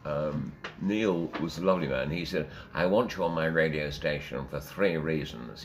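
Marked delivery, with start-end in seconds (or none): 2.7-5.6 lightly imitated old Etonian accent; a hint of Etonian station boss. Boss recruits a presenter, lightly old Etonian. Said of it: "in his best old Etonian voice".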